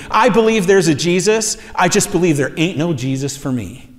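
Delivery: a desperate man telling a preacher God isn't for him, bitter and dead serious. Retold or imitated. Pushed out, then let fall with finality. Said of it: "And he was dead serious".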